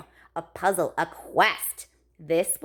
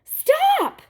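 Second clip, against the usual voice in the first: high, loud shout of stop; parents yelling stop; 7 dB louder than usual. A narrator's reading. Parents yelling stop at daughter mid-experiment. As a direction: bellow it to freeze her in place. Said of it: "her parents yelled".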